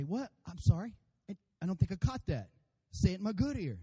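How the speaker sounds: mildly confused, asking for a repeat; hard of hearing. Acted. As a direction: lightly play someone who didn't catch it.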